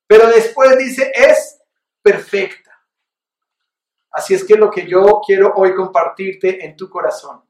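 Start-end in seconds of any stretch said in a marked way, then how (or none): 0.1-2.7 louder and higher, building to the climax; predicación en aumento. Acted. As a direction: preach it up to the key word. Clímax de predicación. (predicando con fuerza creciente hacia "perfecta")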